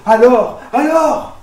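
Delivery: loud, urgent demand for news; eager, anxious asking. Acted. Waiting family asking the new father, heart pounding. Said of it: "le cœur battant".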